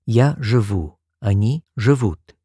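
careful model of "живу" and "живут"; teacher modelling Russian verb forms; Russian example forms. Shown as a demonstration. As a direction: say "живу" clearly with the ending stressed. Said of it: "spelled u and ut".

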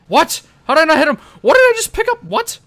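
high, incredulous yelping questions; loud disbelief. Real, not acted. Player baffled by a miss, loud disbelief. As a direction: fire off shocked questions way up high.

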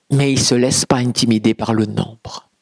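ordinary talk

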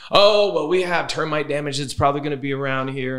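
high, brushing-off listing agent; dismissive agent voice. Retold or imitated. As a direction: wave it away lightly.

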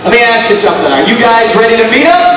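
booming hype announcer; rally speech. Acted. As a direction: pump up the crowd, shouting. Game show host hypes crowd.

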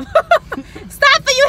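high, loud alarmed cry; alarmed shout. Real, not acted. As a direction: yell a sudden warning. Panicked warning in car.

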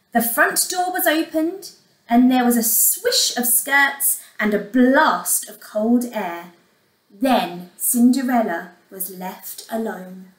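put-on measured storyteller for young children; expressive bedtime-story reading; story narration. A narrator's reading. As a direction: tell it like a fairy tale, words carefully weighted.

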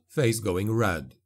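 plain reading voice

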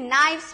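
नाइफ्स said with the K silent, starting on N. Shown as a demonstration. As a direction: say नाइफ्स from the N, no K sound. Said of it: "के silent है नहीं". (नाइफ्स में K silent, N से शुरू)

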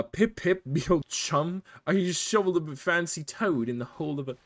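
cartoonish British accent, laughing partway; mock British accent. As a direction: do a silly posh British accent. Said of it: "I wanna see something so British".

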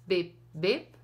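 ordinary talk, nothing marked

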